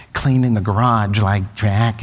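slow, lightly voiced Nicholson drawl; like Jack Nicholson. Dad practicing Nicholson around the house, slow. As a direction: slide into a slow Jack impression.

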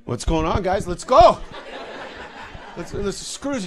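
high, loud urging; eager rallying. Retold or imitated. Storyteller urges the silent crowd to keep chanting, excited. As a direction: egg the crowd on at full pitch.

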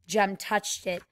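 ordinary delivery

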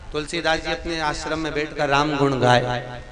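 ordinary talk, nothing marked

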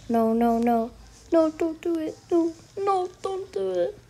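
frantic pleading, no no no; terrified horror victim. Real, not acted. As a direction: beg desperately not to fall. Pleading as he is about to fall.

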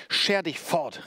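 high-pitched forceful command; called out. A narrator's reading. Executioner driving the old woman off, calling out. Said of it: "rief Calcraft".

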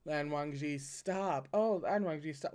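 lightly hammed-up fake protest; half-hearted theatrical stop; mock distress. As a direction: playfully whine it, not really meaning it. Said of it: "as opposed to the tone of".

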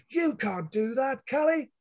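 high, slow father's roar; a father bellowing his objection. A narrator's reading. Father roaring at his daughter from behind her. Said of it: "her father roared from behind her".

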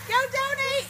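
very high, breathless from cold; in ice cold water. Real, not acted. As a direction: squeal it out while freezing. Ice water just poured over her.

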